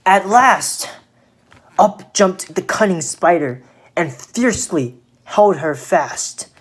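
emphatic storyteller at the climax; expressive poem reading for children; dramatic story narration. A narrator's reading. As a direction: punch out the action of the tale. Narrates the spider's pounce.

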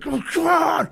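eager yell to get going; excited yell. Retold or imitated. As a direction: shout it, all fired up. Soldier yelling in helicopter, excited.

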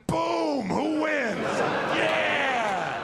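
high, loud victory whoop; mock-triumphant high, loud cheer. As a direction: celebrate the win like a sports fan. Atheist gloating victory.

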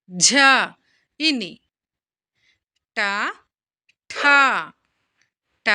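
చ through న as isolated syllables with long pauses; reading while writing. Shown as a demonstration. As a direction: recite చ/ఛ, ట/ఠ, డ/ఢ, the second of each breathed out. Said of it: "చదువుకుంటూ రాయండి".

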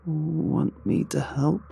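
slow, high sarcastic offer. A narrator's reading. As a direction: offer help with drawn-out sarcasm, rising at the end. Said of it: "she asked sarcastically".

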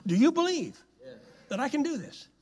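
preacher pressing the congregation; preaching shout. Real, not acted. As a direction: fling the question out. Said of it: "preacher calls to congregation".

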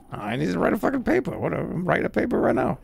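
hammed-up Boston accent; mock Boston student. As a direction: argue back like a Boston guy. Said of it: "like a forty-year-old guy from Boston".

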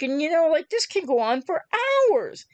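ordinary talk

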